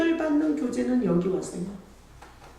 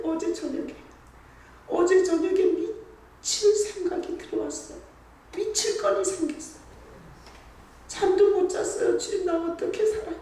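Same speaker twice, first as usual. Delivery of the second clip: pleading prayer; 5 semitones higher than usual. Retold or imitated. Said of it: "어떤 날은 이래요".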